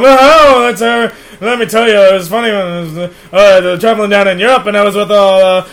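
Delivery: fast zany comic patter; Robin Williams impression. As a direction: ramble like a manic stand-up. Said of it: "Mister Williams, it's time to go".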